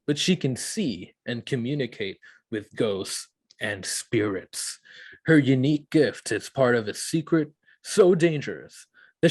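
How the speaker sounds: dramatic movie trailer narration. Acted. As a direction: read it like an epic trailer. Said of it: "Just use your trailer voice for sure".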